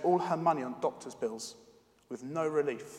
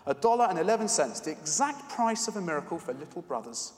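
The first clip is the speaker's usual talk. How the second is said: smiling. Acted. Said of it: "smiled the man".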